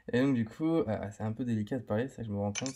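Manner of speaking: numb mouth after anaesthetic; numb from the dentist. Real, not acted. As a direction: talk with a numb tongue and cheek. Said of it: "je suis encore un peu endormi au niveau de la langue".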